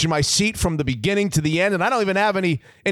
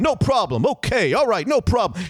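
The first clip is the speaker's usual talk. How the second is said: Rodney Dangerfield mumbling; 3 semitones higher than usual. Retold or imitated. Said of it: "He's mumbling".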